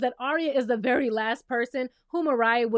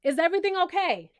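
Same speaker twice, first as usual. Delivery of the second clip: higher, louder sarcastic check-in; sassy, higher are you good; mock concern; 5 semitones higher, 3 dB louder than usual. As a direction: ask like he's lost his mind. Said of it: "I'd have been like".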